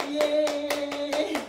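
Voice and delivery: long drawn-out loud cheer; celebratory yay. Real, not acted. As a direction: whoop it out, slow and loud. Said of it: "その場で拍手".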